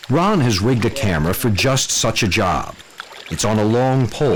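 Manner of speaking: measured voice-over narration; nature documentary. A narrator's reading. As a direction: narrate like a wildlife film.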